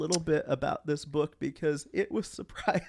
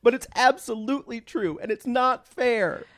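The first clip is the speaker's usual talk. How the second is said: whiny martyr, higher, slowing on the last words; dramatic reading; 5 semitones higher than usual. Acted. Parody scene, Christian complains life is unfair, mock whine. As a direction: plead it like a wronged child. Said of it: "This was a dramatic reading".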